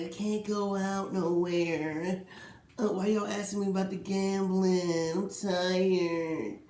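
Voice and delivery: lightly mocking whine, slow; a hint of a complaining star; whiny Jordan. Mocks Michael Jordan complaining in The Last Dance, mildly whiny. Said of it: "it seemed kinda whiny".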